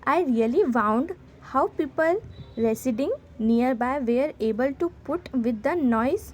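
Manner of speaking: slow, careful dictation pace; slow read-aloud. Shown as a demonstration. Teacher reading the sample letter to students, slow dictation. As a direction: read each English word out slowly for the class.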